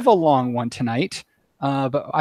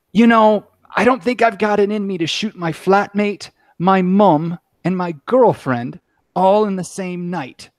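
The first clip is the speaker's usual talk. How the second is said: second character voice; 3 semitones higher than usual. Acted. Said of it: "I may have to just for, for the giggles of it".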